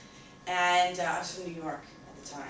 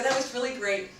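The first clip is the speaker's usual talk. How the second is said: retold hilarity, high and loud; hysterical; 4 semitones higher, 6 dB louder than usual. Congratulating friend on his supposed joke, hysterical. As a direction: gush praise as if still cracking up.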